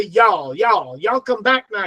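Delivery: lightly put-on American Southern accent; a hint of Southern US twang. Shown as a demonstration. Giving an example to learners, light Southern US accent. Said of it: "They have the Southern accent".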